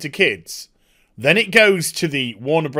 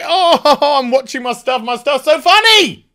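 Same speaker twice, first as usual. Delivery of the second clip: high, louder laughing gush; mock narcissist; 8 semitones higher, 5 dB louder than usual. Mocking the creator, a high, giggling, smug voice. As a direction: giggle at your own stuff. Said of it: "he did a really funny look".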